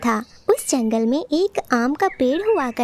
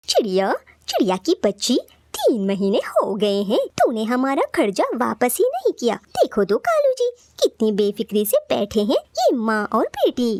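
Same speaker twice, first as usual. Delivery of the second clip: rude crow. Acted. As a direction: crow taunting the sparrow over unpaid money. Crow scolds debtor sparrow.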